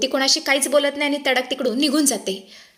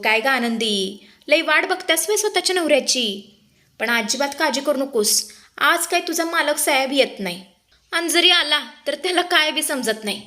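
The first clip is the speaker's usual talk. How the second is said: villain taunt; 3 semitones higher than usual. Acted. Villain threatening Anandi.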